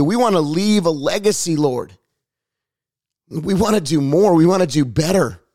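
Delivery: earnest, unhurried spoken prayer; fervent prayer. Real, not acted. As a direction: plead with God, phrase by phrase. Leads a prayer of repentance.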